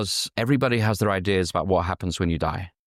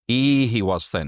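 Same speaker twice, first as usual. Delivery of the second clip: light Yorkshire "E", drawn out as an exclamation; a touch of Yorkshire accent. Acted. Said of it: "that's kind of a Yorkshire accent there".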